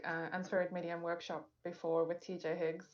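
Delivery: muffled caller on a bad line. Real, not acted. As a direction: sound as if through a wall.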